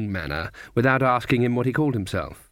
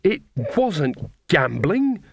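snapped; 5 semitones higher, much slower than usual. Acted. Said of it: "snapped Nanny".

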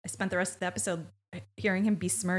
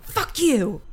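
sudden louder, higher comeback; mock angry outburst; 4 semitones higher, 6 dB louder than usual. Imitating Monique escalating at her name, mock angry outburst. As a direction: fire it back as a hammed-up overreaction.

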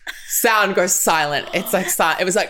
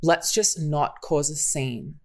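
measured urging; 3 semitones lower, 5 dB quieter than usual. Retold or imitated. Friend asking Riley to handle it maturely, measured urging. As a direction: talk a hothead down, slowing at the end.

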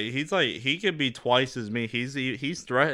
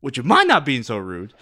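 louder mock chef rant; imitating a shouting chef; mock Gordon Ramsay yelling; 3 semitones higher, 8 dB louder than usual. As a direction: bark it like an angry TV chef. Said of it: "He, he went".

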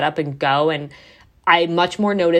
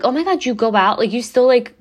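higher-pitched mock disbelief; imitated shock; 5 semitones higher than usual. People reacting to her going out on prep, mock shocked. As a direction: act out people taken aback, lightly. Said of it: "they're kind of, like, shocked".

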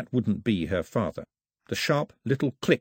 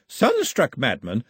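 "Sunstruck madmen" slow and scornful; mocking repeat; 2 semitones higher, slower than usual. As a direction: echo "Sunstruck madmen" with disdain. Grandmother repeats his words scornfully.

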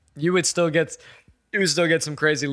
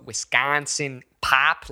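slow Wisconsin-Chicago flattened vowels; Chicago accent; much slower than usual. Shown as a demonstration. Showing what dad got rid of, Chicago accent. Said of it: "like, the Chicago".

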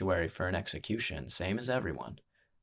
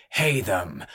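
announcer call; 4 dB louder than usual. Acted. Ringmaster announces fighter name.

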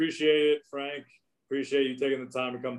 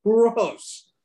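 disgusted; 10 semitones higher, 6 dB louder than usual. Real, not acted. Groaning over Red Sox loss.

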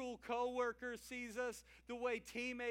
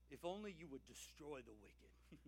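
much softer, low, inward prayer; hushed plea; 7 semitones lower, 11 dB quieter than usual. Acted. Preacher reading the psalmist's plea against the wicked, hushed. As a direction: pray it low and close, almost to yourself.

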